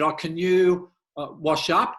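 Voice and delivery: a hint of a wife's casual request. Wife asks him to wash up.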